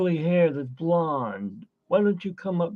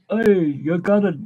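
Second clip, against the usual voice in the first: higher mock Italian accent; 5 semitones higher, 4 dB louder than usual. Claiming to be more Italiano, higher mock Italian accent. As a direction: call out in a put-on Italian accent. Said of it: "I'm more Italiano".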